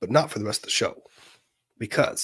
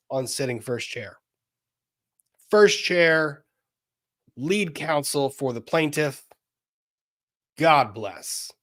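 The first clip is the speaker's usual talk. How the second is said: excited congratulations; 3 semitones higher than usual. Real, not acted. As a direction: cheer her on warmly. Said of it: "love the pause game".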